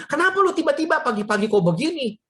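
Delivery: retold confused questioning; bewildered parents. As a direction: imitate a baffled parent asking why. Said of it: "Mama saya bingung, papa saya bingung".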